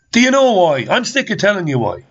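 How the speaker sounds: fed up, throw it at them; frustrated radio rant; exasperated. Real, not acted. Ranting host repeats his question.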